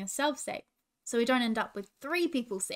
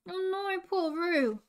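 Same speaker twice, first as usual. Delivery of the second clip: mock scream; much slower than usual. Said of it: "he screamed".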